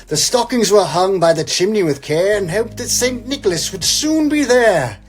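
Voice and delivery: grand, theatrical poem reading over music; poem recital. Acted. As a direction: read it like a big Christmas classic.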